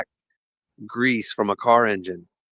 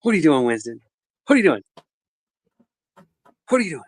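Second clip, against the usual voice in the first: rising higher each time he asks; calling to the dog; 3 semitones higher, much faster than usual. Real, not acted. Dad asks his dog Winston what he's doing, rising high. Owner calls to playful dog.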